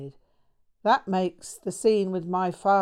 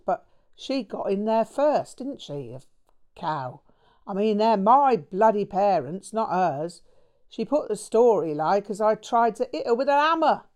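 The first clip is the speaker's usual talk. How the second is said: a lightly voiced cockney mate, ranting louder; Jack's ranting voice; 3 semitones higher, 4 dB louder than usual. Bloke venting to his friend about his parents, angry rant. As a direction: spit it out, aggrieved and bitter.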